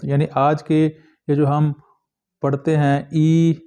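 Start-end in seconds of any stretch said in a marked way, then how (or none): 3.1-3.6 a drawn-out long ee for ई; long vowel. Shown as a demonstration. Teacher showing students a long vowel, long ई. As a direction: hold ई as a long, pure vowel. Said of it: "ये long vowels हैं".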